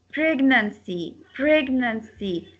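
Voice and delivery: "pregnancy" said syllable by syllable; teacher's careful, falling "pregnancy"; demonstrating word stress. Shown as a demonstration. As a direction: spell out the beats of "pregnancy" for learners. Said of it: "The stress will men".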